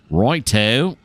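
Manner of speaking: bad British accent on a quick word; attempted British accent. Model train host slips out a reply, attempted British accent. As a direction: slip into a clumsy British accent. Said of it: "my attempt at a British accent".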